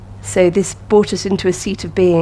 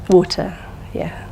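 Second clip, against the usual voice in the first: whispering. Real, not acted. Teacher confirming student answer.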